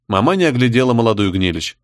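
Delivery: ordinary delivery, nothing marked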